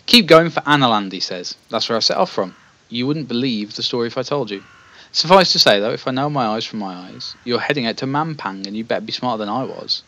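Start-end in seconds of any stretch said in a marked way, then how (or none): 0.1-1.1 put-on old man piping up loudly; raised, louder old man voice. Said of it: "wiry old man". 1.7-10.0 lightly voiced wiry old man; a touch of a feeble old fellow. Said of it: "wiry old man".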